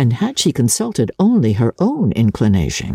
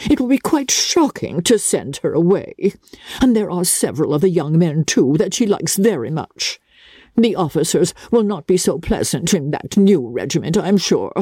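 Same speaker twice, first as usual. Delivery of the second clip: higher voice of a complaining mother; a higher, put-upon mother's grumble; Mrs Bennet's lament; 4 semitones higher than usual.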